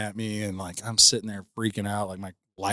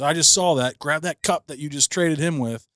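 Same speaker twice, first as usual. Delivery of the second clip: raised, sharp accusing voice; stern cop; 6 semitones higher, 3 dB louder than usual. Retold or imitated. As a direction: call him out firmly. Cop catching cup swap.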